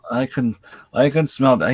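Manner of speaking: lightly imitated bad foreign accent; a stab at a broken-English movie accent; mock the actor's clumsy accent; terrible accent. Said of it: "it's a terrible accent".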